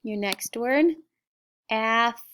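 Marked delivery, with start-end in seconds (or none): 1.7-2.2 "athlete" split slowly into ath... lete; "athlete" in two separate syllables; sounded out. Shown as a demonstration. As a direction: sound out "athlete" with a clear gap. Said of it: "sound it with me".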